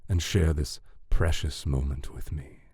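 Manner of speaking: soft, half-whispered seduction; said softly. A narrator's reading. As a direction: coax the beloved gently, with some whisper. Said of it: "he said softly".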